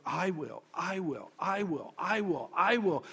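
"I will" repeated as separate beats, building; each "I will" set apart and emphasized; emphatic repetition. Shown as a demonstration. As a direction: start "I will" softly and press harder each time. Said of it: "how I emphasized where God said".

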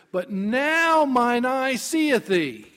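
exalted scripture quote; dawning revelation. Acted. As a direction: proclaim the discovery, stretching the words. Job's climactic realization, quoted.

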